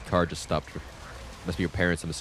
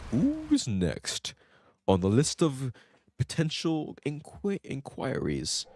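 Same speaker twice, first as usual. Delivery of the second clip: dramatic villain line; 5 semitones higher, much slower than usual. Shown as a demonstration. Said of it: "dramatic reread of the line".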